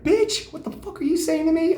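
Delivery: high, loud mock outrage; mock outraged. Comedian retelling snapping at the counselor, in loud, high mock outrage. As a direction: fire back in exaggerated high outrage.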